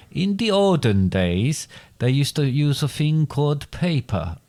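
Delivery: slow, slightly put-on foreign accent; Vlad. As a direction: lightly slip into a mock foreign accent, drawing words out. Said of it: "That was more like Vlad".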